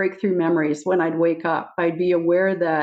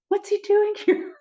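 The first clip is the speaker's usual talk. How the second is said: high, startled retold question; bewildered. Telling a friend about seeing Jesus in church, mock startled. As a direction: sound thrown by a surprise visitor.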